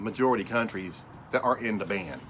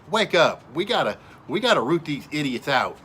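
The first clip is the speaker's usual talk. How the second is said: higher, louder cry of "Wake up"; urgent call; 4 semitones higher, 4 dB louder than usual. Real, not acted. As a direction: shout "Wake up" as a rallying cry. Urging the nation.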